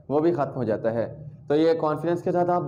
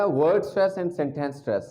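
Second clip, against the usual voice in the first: slow careful terms; much slower than usual. Shown as a demonstration. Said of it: "slow model phrase".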